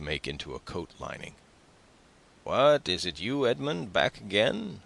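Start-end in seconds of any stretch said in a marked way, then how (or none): 2.4-4.8 put-on high-pitched greeting with a Marseillaise accent; exclaimed question, raised pitch, Marseillaise accent; broad Marseillaise accent. A narrator's reading. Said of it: "with a broad Marseillaise accent".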